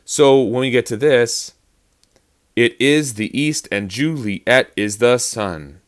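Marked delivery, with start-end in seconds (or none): 2.6-5.8 slow, even alternation up to "sun"; plodding metre, "is" and "east" stressed; strict iambic beat. Shown as a demonstration. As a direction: scan "Juliet" as three separate syllables. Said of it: "makes it sound soft and uninteresting".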